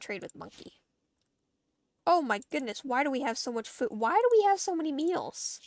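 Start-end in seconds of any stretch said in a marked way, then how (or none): 2.1-5.6 shocked disbelief. Real, not acted. Shocked at the stockpile of meals.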